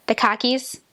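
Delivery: slow Boston accent, car keys as khakis. Shown as a demonstration. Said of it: "So it sounds like khakis".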